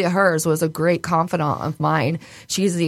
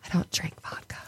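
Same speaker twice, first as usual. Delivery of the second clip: whisper; 12 dB quieter, faster than usual. Retold or imitated. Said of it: "And I was like".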